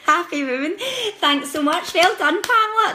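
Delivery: high, loud, thrilled congratulations; delighted. Real, not acted. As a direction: gush with genuine joy. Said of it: "That's really cheered me up".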